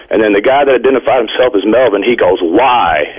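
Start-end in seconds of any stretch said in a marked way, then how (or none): 2.4-3.1 low, ominous retold why; a lower, mildly ominous ghost voice; ominous spirit voice. Caller retelling the spirit box voice, mild ominous low tone. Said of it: "in, like, an ominous tone".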